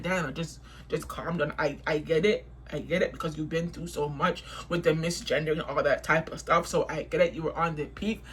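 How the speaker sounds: low, soft, mock-soothing reply; calmed-down retort. Narrator retells calmly telling staff she gets it, low and soft.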